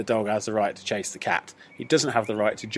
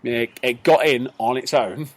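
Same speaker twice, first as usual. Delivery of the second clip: deadpan excuse; slower than usual. Retold or imitated. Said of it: "I just went".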